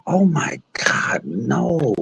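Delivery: mock crying. Retelling the fight, hammed-up hurt reply. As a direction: whimper it like a fake cry. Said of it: "I said".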